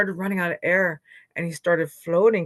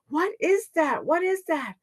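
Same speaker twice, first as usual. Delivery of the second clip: higher-pitched startled questions; astonished; 10 semitones higher than usual. Acted. Animals spot someone falling from the sky, astonished. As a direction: wonder aloud in alarmed surprise.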